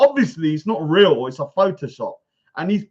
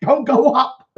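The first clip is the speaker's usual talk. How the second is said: high mock panicked pleading; 5 semitones higher than usual. Imitating the rival begging the camera not to move, mock panic. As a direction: beg in a hammed-up squeak. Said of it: "He's going".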